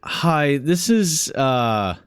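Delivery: lightly voiced nervous clerk; hesitant, apologetic phone call; apologetic morgue clerk.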